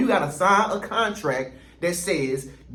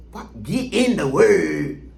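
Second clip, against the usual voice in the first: incredulous; much slower than usual. Real, not acted. Incredulous reaction to comment.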